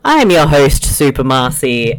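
lightly voiced sultry host intro; a touch of seductive radio host; sexy intro voice. Shown as a demonstration. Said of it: "I just talk like that for the intro".

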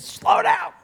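high, loud mimicked kid's yell; yelling child. Son yelling at dad on the jet ski, imitated shout. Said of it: "he was yelling at me".

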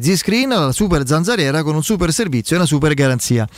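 radio ad read, measured and bright; infomercial. Acted. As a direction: read the sponsor spot like a pitch. Host reads sponsor ad.

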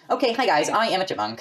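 a light attempt at a chipmunk voice. Shown as a demonstration. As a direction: try to sound like a little chipmunk. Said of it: "I did just try and sound like a chipmunk".

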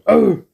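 short high-pitched exclamation; mock impression "oh". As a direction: pop out an imitated high "oh". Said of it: "their impression of Amish is to go".

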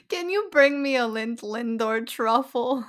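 slow, put-on Transylvanian-sounding old man; George. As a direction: draw it out in a bad Transylvanian accent. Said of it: "like, a Transylvanian accent".

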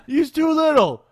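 put-on retry the Eastern European accent, pushing it harder. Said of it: "I can't do an Eastern European accent whatsoever".

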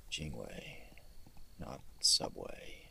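slow whispered correction; whispered aside while dictating. Real, not acted. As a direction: breathe the correction to yourself. Correcting autocorrect under his breath.

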